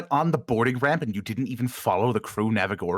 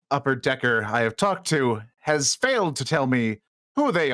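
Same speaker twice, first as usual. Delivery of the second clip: slow, formal ship-wide announcement; commanding captain address. Acted. Captain addressing his crew over the Vox, slow and stern.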